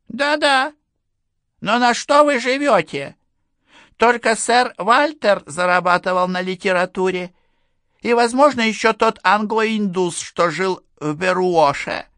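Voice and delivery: put-on high, pushy old general; stern general. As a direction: press him like a suspicious old officer. General presses Enderby. (напористый голос генерала)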